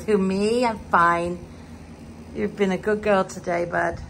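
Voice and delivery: lightly voicing the pet cat; cat's voice. Owner voicing her cat Scratchy's reply. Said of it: "She goes".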